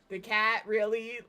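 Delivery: loud disbelieving "the cat, really?"; incredulous background call. Retold or imitated. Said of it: "you could just hear in the background going".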